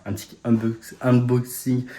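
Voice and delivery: "unboxing" prononcé avec un accent français; English word "unboxing" in a French accent; accent français en anglais. Real, not acted. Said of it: "Ça, c'est mon accent anglais". (accent anglais à la française)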